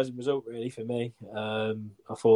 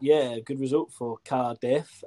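slow, hammed-up Welsh accent; slower than usual. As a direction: put on a bad Welsh accent. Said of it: "Such a shit and Welsh accent".

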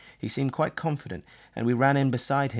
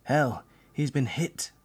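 hoarse, slow, higher voice; 4 semitones higher, slower than usual. Acted. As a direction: rasp out the bad news slowly. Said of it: "someone said hoarsely".

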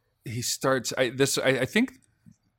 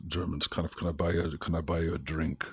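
put-on soft, low German-accented murmur; 6 semitones lower, 7 dB quieter than usual. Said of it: "I started with this low accent".

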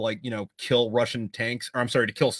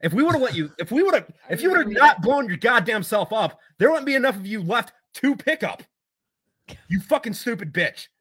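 loud, higher mock rant at a dead man; a mock tirade, loud and higher; angry rant; 8 semitones higher, 4 dB louder than usual. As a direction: yell at the corpse in disgust. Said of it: "we're like".

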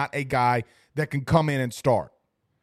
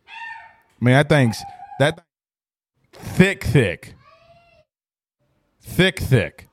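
exaggerated goofy voice; 5 dB louder, much slower than usual. Streamer goofing on how thick the thing is, loud silly voice.

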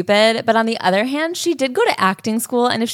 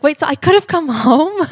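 higher, louder incredulous question, lightly voiced; a touch of stunned outrage; mock disbelief; 7 semitones higher, 4 dB louder than usual. Daughter to her mom, mildly incredulous. Realizing mom's reason.

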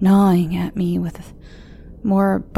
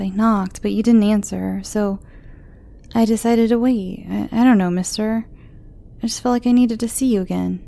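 put-on high, hesitant young girl; worried young girl voice; teen girl voice; 3 semitones higher than usual.

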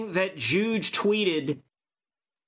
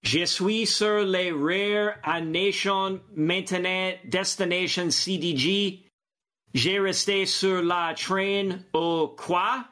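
butchered French. Shown as a demonstration. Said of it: "I'm gonna butcher this French here".

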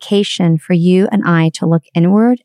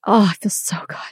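soft whisper, pleased; whispered relief; 5 dB quieter than usual. Retold or imitated. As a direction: sigh it out in a whisper. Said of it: "I'm like".

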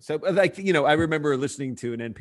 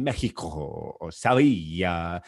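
mock Spanish pronunciation; 5 semitones lower, much slower than usual. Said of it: "He's like".

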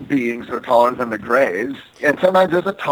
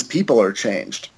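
lower, flat alien statement; 5 semitones lower, 3 dB quieter than usual. Retold or imitated. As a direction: say it low like an eerie alien. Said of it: "the alien says".

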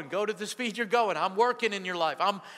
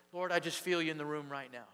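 soft, low, halting words to God; softer and lower, broken, intimate prayer; hushed prayer; 4 semitones lower, 6 dB quieter than usual. Acted. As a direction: pray it alone in the room. Acting out a quiet personal prayer.

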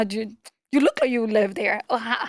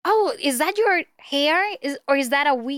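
mock nosy stranger; 3 semitones higher than usual. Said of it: "I have really curly hair".

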